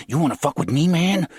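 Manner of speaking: loud, high menacing challenge; threatening snarl. A narrator's reading. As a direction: get in his face.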